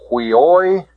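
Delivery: "huioi" ending in a held OY; pronunciation demo. Shown as a demonstration. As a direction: model "huioi" clearly. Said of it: "The pronunciation of this".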